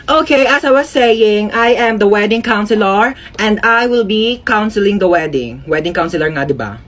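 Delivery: slow, lightly pompous officiant; measured pace, mildly put-on formality; self-important wedding counselor.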